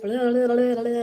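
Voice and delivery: tongue-rolling run of babble; babbled blah-blah. Retold or imitated. Telling how she shared everything, mimicked babble. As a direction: spill it out as loose babble.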